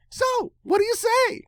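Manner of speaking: high breathy whisper of a pony; whispered pony question. Acted. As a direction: whisper it like a curious cartoon pony.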